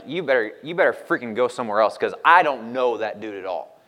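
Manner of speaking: a hint of Peter snapping at the accuser; half-hearted angry brush-off; mock angry cussing. Peter denying Jesus to a bystander, mildly angry. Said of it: "Starts cussing at him and everything".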